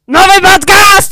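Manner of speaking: loud, high, excited call; shouted announcement. Shown as a demonstration. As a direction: belt it out like a big reveal. Repeated takes of an announcement.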